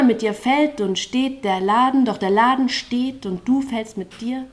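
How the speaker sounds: rhythmic, driving spoken-word delivery with a pulsing chorus; slam poetry recital. Acted. Poet on stage reciting to the slam audience, rhythmic spoken word. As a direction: perform it like a poetry slam, riding the beat.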